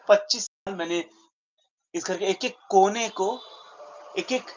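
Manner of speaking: halting dramatic monologue, heavy pauses between outbursts; lightly voiced stage character listing a life's sacrifices; aggrieved Uncle Vanya. Character telling the injustice they have experienced, aggrieved.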